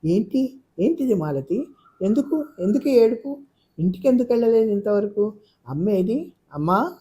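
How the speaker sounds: high, startled and worried questioning; astonished questions. Acted. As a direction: rush the questions out in alarm. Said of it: "ఆశ్చర్యపోయింది ఆమె".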